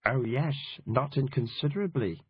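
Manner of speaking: light, reedy imitation of a prim politician; a hint of a reedy, prim statesman; John Major impression. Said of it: "doing a reedy-voiced John Major impression".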